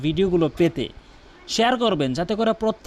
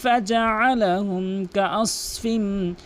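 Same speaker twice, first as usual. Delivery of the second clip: slow, long-drawn tajweed chant; measured Quranic chanting; Quran recitation; much slower than usual. Acted. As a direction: recite with stretched, sustained vowels.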